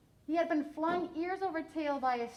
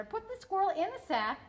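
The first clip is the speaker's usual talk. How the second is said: high, then louder and faster at the end; shouted order; 7 semitones higher, 5 dB louder, faster than usual. A narrator's reading. Mother shouting orders at father about the squirrel. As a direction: bark the instructions at him. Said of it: "shouted her mother".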